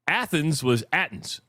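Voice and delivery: second "Athens" said with a hard T, like "Attens"; TH dropped. Shown as a demonstration. Host showing northern Wisconsin speech, second "Athens" with T for TH. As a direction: say "Athens" properly, then "Athens" as "Attens". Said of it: "is the T H sound".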